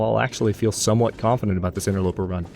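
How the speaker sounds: "somewhat" gently emphasized as a hedge; stress on somewhat. Real, not acted. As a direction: lean lightly on "somewhat". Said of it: "Emphasis on somewhat".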